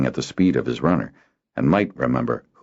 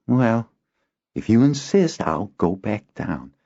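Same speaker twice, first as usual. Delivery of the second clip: lightly raised voice, slowing and fading; reluctant boy; 6 semitones higher than usual. Acted. Boy faking reluctance to his friend. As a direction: pretend to give in. Kinden resigned.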